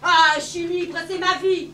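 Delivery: loud slurred high wail; drunk crying. Acted. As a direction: whine it out like a drunk. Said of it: "elle est complètement bourrée". (pleurnicher comme une ivrogne)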